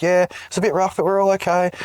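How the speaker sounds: squeaky light reply from the capsule; high girly voice. Retold or imitated. Acting out astronaut girls replying.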